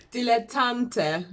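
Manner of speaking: slow, laughing try at dilettante; laughing through the word. Real, not acted. Reader laughs stumbling over the word, laughing. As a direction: giggle while sounding out dilettante.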